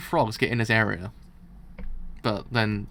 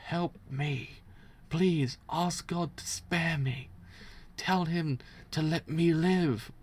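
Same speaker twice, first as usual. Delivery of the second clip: begging for life; 4 semitones higher, much slower than usual. Acted. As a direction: beg the priest slowly to spare you. Dying man begs the priest.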